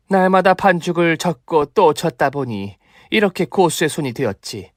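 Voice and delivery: gloating kung fu master voice; brag, then threaten with relish; boastful martial master. Acted. Mother boasts, threatens fight. (허세 부리는 고수)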